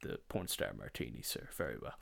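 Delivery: very low, hushed deference; put-on deep, soft servile voice; discreet waiter. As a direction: murmur it like a discreet upmarket waiter. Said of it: "And they'll go".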